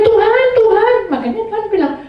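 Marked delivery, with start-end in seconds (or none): 0.0-0.9 high, loud mock call to God; imitated crying out. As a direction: call out as if desperate for help. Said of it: "Kamu loh teriak-teriak namaku".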